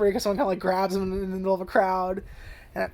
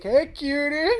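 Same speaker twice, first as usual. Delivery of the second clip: higher, teasing hello; flirty come-on; 7 semitones higher, much slower than usual.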